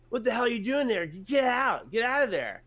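loud, high shout to get out; cop yelling. Retold or imitated. Cop yelling at him to get out, loud high shout. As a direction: bark it like a panicked cop ordering him out.

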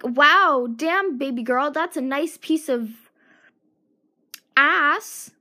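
a hint of a loud catcaller; hammed-up leering call; mock catcaller.

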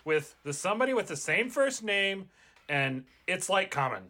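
a hint of Valley Girl, like-filled; casual, breezy Valley Girl chatter. Jones doubts being chosen, in a mild Valley Girl accent. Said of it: "What about Valley Girl?".

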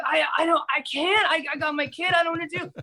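high, stammering imitation of a flustered friend; mock flustered refusal. Imitating friend who can't help, flustered stammer.

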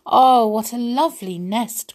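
bright delighted cry; pleasantly surprised. Acted. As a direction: gush over the little nest. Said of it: "cried Snow White".

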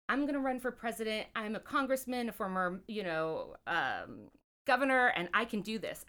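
put-on light Louisiana Southern accent; a hint of a Southern politician's accent. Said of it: "he has the cutest Southern accent".

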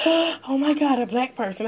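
mock the shocked shopper; mocking white lady. Imitating the white lady startled by her, lightly voiced alarm.

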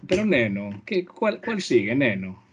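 a hammed-up drunk Galician accent, wobbling up on cuál; mock drunk Galician. Teasing the host with a drunk Galician accent. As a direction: slur it like a tipsy Galician. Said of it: "es como gallego borracho".

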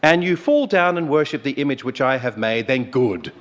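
loud, imperious royal decree; King Nebuchadnezzar. Retold or imitated. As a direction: lay down the king's terms. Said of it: "that's how he said it".

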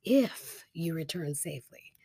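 "if" held alone, then "you return safely" after a gap; pregnant pause. Shown as a demonstration. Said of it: "a very pregnant pause".

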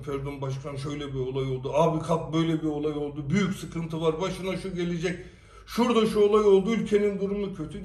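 rushed, mock-urgent warning, fast; mock alarmed prank call. Teasing his friend on the phone with fast mock alarm. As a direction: hurry the bad news out like a fake emergency.

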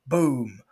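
shouted boom; loud boom sound effect. Retold or imitated. Narrator voicing boats flipped over. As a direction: slam the word like a crash.

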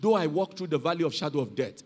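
low, soft psalm reading, lightly in character; elderly man's reading. Retold or imitated. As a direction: read it hushed, as the old man. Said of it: "the man kept on reading the Psalms".

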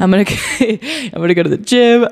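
laughing sarcastic cheer; mock excited. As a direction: ham up fake gym excitement. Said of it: "I'm not waking up every morning like".

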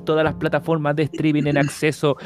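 grand showman announcer voice; ringmaster. Acted. Podcast host opening announcement. (presentador de circo)

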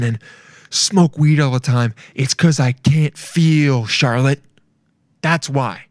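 slow, earnest, a touch tearful; mock serious confession. Dan confessing to Charlotte he can't feel, mock earnest. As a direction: pour your heart out, overly solemn. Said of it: "Gets super serious".

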